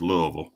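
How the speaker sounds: LOUISVILLE reduced to "LOO-uh-vul"; local Louisville pronunciation. Shown as a demonstration. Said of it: "I bet you he says".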